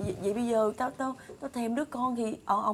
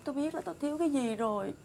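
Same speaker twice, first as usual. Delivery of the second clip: hushed realization; 8 dB quieter than usual. Acted. Solemn realization of deepest lack.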